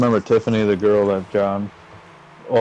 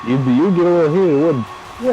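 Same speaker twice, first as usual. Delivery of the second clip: higher, louder retold challenge; heated challenge; 7 semitones higher, 4 dB louder than usual. Challenging a mother about her own kid, heated. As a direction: press her to admit it.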